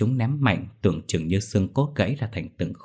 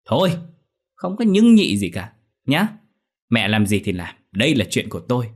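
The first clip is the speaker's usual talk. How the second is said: cutting her off; 3 semitones higher, 4 dB louder than usual. Acted. Son cuts mother off.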